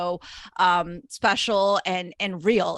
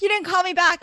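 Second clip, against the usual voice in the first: higher-pitched imitation of a mom's complaint; mock a nagging mom, pitched up; imitated mom; 9 semitones higher, 4 dB louder than usual. Host imitating the film's mom phoning her son, mock complaint. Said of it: "and she's like".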